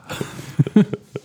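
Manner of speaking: a burst of airy giggling; high breathy laugh. Real, not acted. Laugh after joke.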